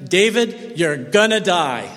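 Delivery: laughing tease; deadpan joke that breaks into a laugh; joking misquote. Pretend. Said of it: "says to him".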